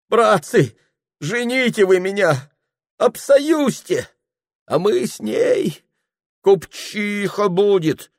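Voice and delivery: put-on high, loud drunken cry of a lovesick clerk; Ilya exclaiming. (высокий громкий пьяный вскрик влюблённого)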